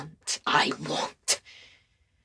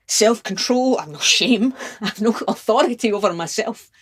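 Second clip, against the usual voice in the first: raised, urgent confession; impassioned outburst; 4 semitones higher, 5 dB louder than usual. Acted. Lover confessing no self-control, loud and impassioned. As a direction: burst out louder, losing restraint.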